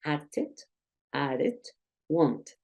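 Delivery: "Acted, added, wanted", each low with an "ed" syllable; ED endings sounding alike. Shown as a demonstration. Teacher compares three verbs, "Acted, added, wanted" with matching ED. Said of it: "Suena igual, básicamente".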